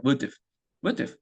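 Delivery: "would" plus a short schwa closed with v; careful reduced would've. Shown as a demonstration. Teacher modelling the exact contraction, "would" ending in a v sound. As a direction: finish "would" on a light "uhv". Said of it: "v 사운드로 닫아주시면 정확한 발음입니다".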